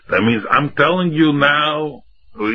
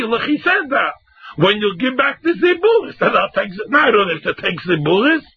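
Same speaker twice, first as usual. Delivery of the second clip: defiant retort; 6 semitones higher than usual. Retold or imitated. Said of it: "else I say".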